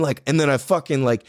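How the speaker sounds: usual speaking voice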